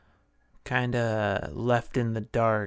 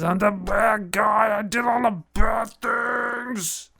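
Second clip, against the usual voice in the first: higher, louder put-on villain boast; a higher, hammed-up villain voice bragging; Count's bad-guy voice; 7 semitones higher, 3 dB louder than usual. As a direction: ham it up as the six-fingered Count gloating. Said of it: "He says".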